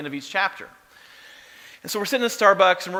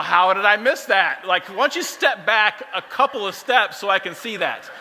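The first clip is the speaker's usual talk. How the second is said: mock impressed; 2 semitones higher than usual.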